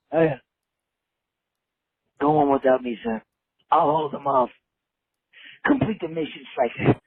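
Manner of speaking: hammy dying soldier farewell; overacted death scene. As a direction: gasp out goodbyes like a dying hero. Caller acts dying on voicemail.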